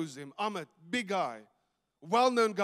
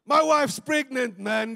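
higher, louder and slower, bursting with joy; overjoyed news; 5 semitones higher, 7 dB louder, slower than usual. Retold or imitated. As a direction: let the good news burst out of you. Friend announces wife's pregnancy.

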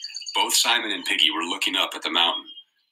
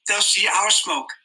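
to himself. A narrator's reading. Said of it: "he spoke to himself".

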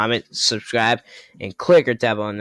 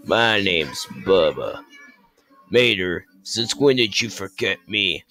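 lightly voiced, lower game villain; Bubba; 5 semitones lower than usual. Bubba confronts Mater, lightly voiced low villain. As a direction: drop the pitch for the bully truck. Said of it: "Bubba is, um, uh, Mater's enemy".

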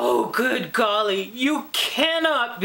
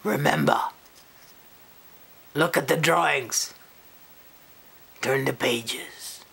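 frog voice; 10 semitones lower than usual. Acted. Frog signs off.

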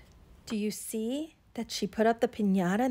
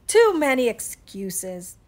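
slow, louder exasperation; exasperated; 6 dB louder than usual. Acted. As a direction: weigh each word, fed up. Iguana flounces at the excuses.

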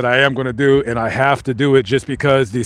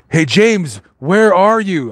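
calling out; 4 semitones higher, slower than usual. Pretend. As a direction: call into the dark for James, half joking. Calling out to a ghost.

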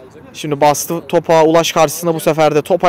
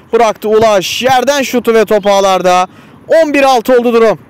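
excited commentator; 4 semitones higher than usual. Real, not acted. Goal call in live commentary.

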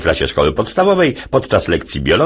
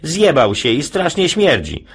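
put-on higher, slow boy's voice; slow child voice; 9 semitones higher than usual. Jasiu telling on classmate, slow high child voice. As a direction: tattle slowly like a kid.

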